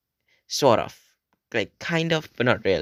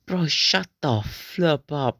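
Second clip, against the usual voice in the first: mocking friend taunt; 5 semitones higher, slower than usual. Friend taunting him in retold dare.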